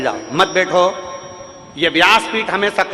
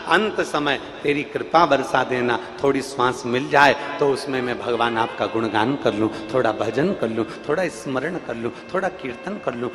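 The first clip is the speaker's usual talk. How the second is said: low, softened pleading; humble prayer; 5 semitones lower, 3 dB quieter than usual. Acted. Preacher voices a dying devotee begging God's grace, soft low plea. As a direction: plead gently, voice sinking lower.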